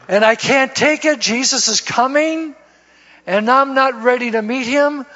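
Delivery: urgent plea. Retold or imitated. Urgent midnight phone call to Rick.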